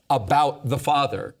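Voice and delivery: deliberate stress on "about the Father"; emphatic. Real, not acted. Teacher highlighting key words of the verse, emphatic. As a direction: set "about the Father" apart, each word weighted. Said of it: "the language I wanna emphasize".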